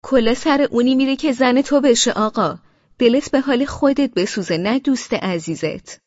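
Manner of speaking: wife leans over the railing to mock Amir, spiteful and high. A narrator's reading. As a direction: sneer it at him, full of spite. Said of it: "با دهنکجی و حرص به امیر گفتم".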